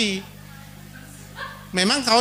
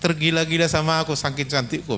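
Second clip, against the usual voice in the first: boastful reply; 4 semitones lower than usual. Acted. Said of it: "bilang jelek ini".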